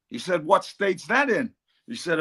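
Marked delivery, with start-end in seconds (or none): 0.5-1.5 slow, higher mock American question; Donald Trump. Trump asking where Pennywell is, slow American imitation. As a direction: lightly imitate a baffled American politician. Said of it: "Donald Trump turned around and he says".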